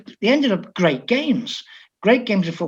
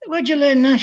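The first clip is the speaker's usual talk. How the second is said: surprised question, pitched much higher; amazed; 8 semitones higher than usual. Retold or imitated. Coach amazed at the translator's Aussie greeting, higher surprised question. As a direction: sound caught off guard by it.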